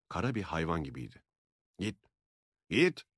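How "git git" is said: loud, high shout. A narrator's reading. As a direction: yell at the hand to go away. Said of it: "diye bağırdı Francis". (yüksek sesle bağırış)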